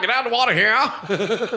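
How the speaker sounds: put-on Louisiana accent. Quoting a movie character while discussing how he sounds, Louisiana accent impression. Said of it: "he sounds like he's from Louisiana".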